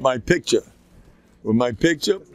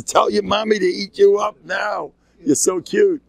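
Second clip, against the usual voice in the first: doting grandfather; 9 semitones higher, 3 dB louder than usual. Retold or imitated. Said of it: "I says".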